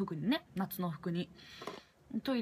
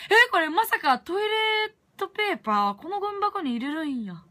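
much higher and louder, startled; shocked realization; 9 semitones higher, 5 dB louder than usual. Retold or imitated. Discovering the used paper in the bin, loud startled surprise. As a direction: gasp it out as it dawns on you.

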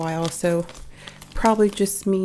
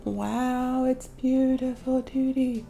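higher, drawn-out cooing to a pet; cooing praise; 4 semitones higher, slower than usual. Real, not acted. Owner admires Tootie in the new necklace, cooing praise. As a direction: coo admiringly at your pet.

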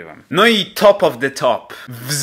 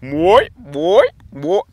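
pelican noises; 3 semitones higher, much slower than usual. Shown as a demonstration. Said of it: "Dobrze, że jestem na środku".

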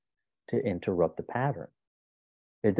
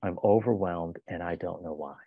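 calm demonstration; 3 semitones lower, 3 dB quieter than usual. Shown as a demonstration. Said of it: "tell the other person".

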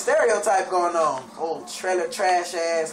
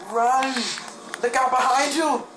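alarm shout; 6 semitones higher than usual. Real, not acted. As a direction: warn a friend of danger behind. Zombies attacking, warns teammate.

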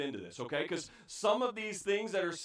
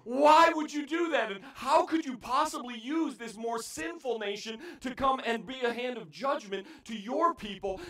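indignant cry; 4 semitones higher than usual. Acted. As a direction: demand an answer from God. Prophet questioning God.

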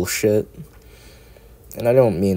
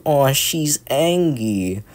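cutesy anger; 6 semitones higher, much slower than usual. Retold or imitated.

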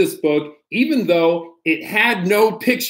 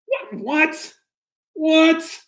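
high baffled what; 8 semitones higher, much slower than usual. Acted. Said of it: "This book is ridiculous".

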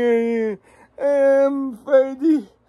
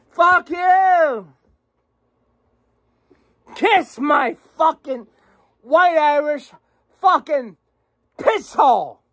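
loud, raised angry yell; angry outburst; 3 semitones higher, 3 dB louder than usual. Real, not acted. Ranting at New Jersey's plans, a loud angry yell. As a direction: spit it out at the state.

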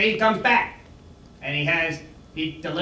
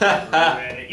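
a louder croaked "Read it" stressing "read"; frog voice; 6 semitones lower, 3 dB louder than usual. Retold or imitated. Repeating the frog punchline, croaking. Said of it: "Yeah, like a frog".

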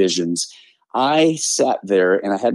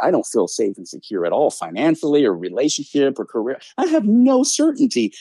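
whiny human self; 5 semitones higher than usual. Retold or imitated. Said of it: "my human character's like".

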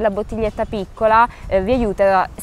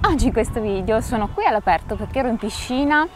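windy outdoor recording; wind on mic; 3 semitones higher than usual. Real, not acted. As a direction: wind gusts hitting the microphone. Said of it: "Scusate il vento, spero che non si senta dal microfono".

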